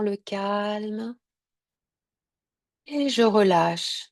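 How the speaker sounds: unhurried Yoga Nidra guidance with long pauses; measured relaxation-session voice, leaving space between phrases; guided meditation. Real, not acted.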